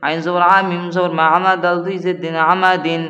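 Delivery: Qaida spelling recitation. Acted. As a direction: spell it out to students in a chanting beat. Spelling drill continues.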